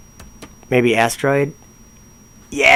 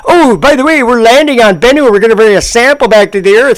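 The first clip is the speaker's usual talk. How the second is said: mock forced cheerfulness; 11 semitones higher than usual. Mocking the presenter's forced cheer in a high voice. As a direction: fake a bright smile over the annoyance. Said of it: "she has to act like".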